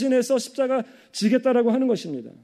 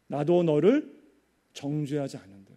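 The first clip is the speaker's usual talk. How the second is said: gentle forgiveness; 6 semitones lower, 3 dB quieter than usual. Acted. Jesus's forgiving words voiced.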